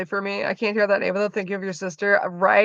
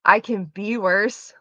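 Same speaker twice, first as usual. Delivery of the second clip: deliberate punchline; slower than usual. Acted. Final version of catchphrase.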